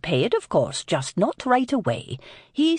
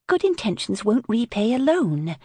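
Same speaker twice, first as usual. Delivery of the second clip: sharp; 5 semitones higher than usual. Acted. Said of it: "Lily returned sharply".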